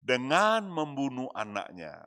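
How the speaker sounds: loud, pleading prayer cry; crying out to God. Acted. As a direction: call out to God in anguish. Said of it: "ia berseru kepada Tuhan".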